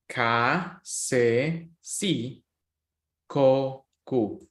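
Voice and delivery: ka, se, si, ko, ku sounded out slowly; Spanish syllables. Shown as a demonstration. Teacher reviewing syllables with students, careful and clear. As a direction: spell each syllable clearly for the class. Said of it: "these guys are different sounds".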